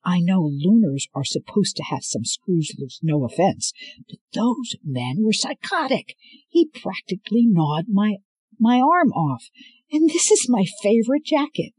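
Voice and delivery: building from near-normal to high, loud outrage; increasingly worked-up complaint, ending high; indignant rant. Acted. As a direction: rant with rising pitch and volume. Thorne cursing, ranting after the attack.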